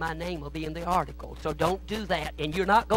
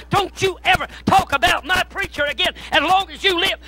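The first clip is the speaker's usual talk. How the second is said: roaring, much higher and louder, furious; furious yelling; 11 semitones higher, 10 dB louder than usual. Retold or imitated. Convert attacking a critic of his pastor, furious yelling. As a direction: bellow it like you're pounding his head into the floor.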